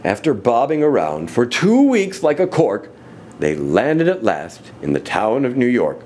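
animated, rhythmic storybook reading; story narration. A narrator's reading. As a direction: read the rhyme to children with big swings.

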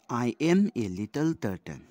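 verse line read out loud; teacher quoting a poem line; poem recitation. Shown as a demonstration. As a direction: recite it loudly for the class.

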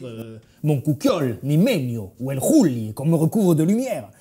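lightly voiced old southern grandfather; a hint of a gruff old man from the Midi; grand-père. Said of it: "je fais mon grand-père". (voix de grand-père du Midi, à peine marquée)

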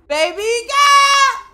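high, loud, long-stretched catcall; flirty holler. Pretend. Player feeling flirty at a woman, long hollered catcall.

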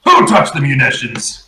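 storming in. Acted. Sun storms up the stairs to confront the crew, mock stern. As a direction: come in demanding answers. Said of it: "Sun comes storming up the stairs going".

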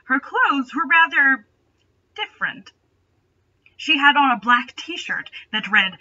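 ordinary talk

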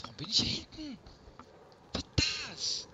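high, loud, whining "Warum bin ich hier hinten?", with a fall on "hinten"; whiny complaint. Real, not acted. Gamer protesting to the game about being stuck at the back, whiny and loud.

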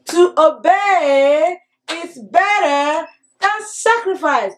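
slow, measured memory verse chant; slow group recitation. Shown as a demonstration. Teacher leading children in a slow recitation. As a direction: lead the class reciting the verse slowly. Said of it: "Can we say it together".

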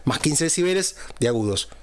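bright, trebly mic sound; crisp, overly bright EQ; treble boosted. Shown as a demonstration. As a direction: voice with the highs pushed fifteen decibels up. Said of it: "estamos escuchando mi voz con los agudos, en este caso, al máximo".

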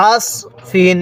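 আস said with a thick emphatic স; heavy sad sound. Shown as a demonstration. Teacher repeats the correct reading for learners, heavy sad. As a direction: give আস ফিন a full heavy sad, not সিন. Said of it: "অবশ্যই এটাকে আমরা সদ পড়ব".

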